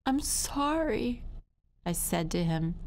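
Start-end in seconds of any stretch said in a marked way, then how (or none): 0.1-1.2 high, slow little whimper; small high pleading voice; tearful child. Acted. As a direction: whimper an apology up at a grown-up. Crying child apologises to towering fireman.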